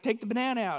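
lightly acted puppet demand; Bert. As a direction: pitch it up as an insistent puppet. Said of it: "He's like".

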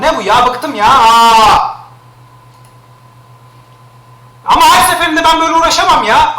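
high, loud exasperated complaining; fed-up rant. Real, not acted. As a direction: vent at the chat, fed up. Fed up with links.

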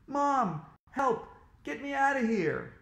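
high, urgent cry for help; panicked calling out. A narrator's reading. Boy calls to mom from dentist's chair, panicked. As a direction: call out to be rescued.

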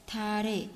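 "달에" with ㄹ carried into the vowel; linked reading. Shown as a demonstration. Teacher showing learners the linking, "달에" as "da-re". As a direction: run "달에" together as "da-re". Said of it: "đọc nối nè".

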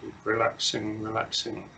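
unhurried meditation guidance with long silences; measured instructions, leaving long pauses to settle; guided meditation. Real, not acted. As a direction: guide them gently into stillness, phrase by phrase.

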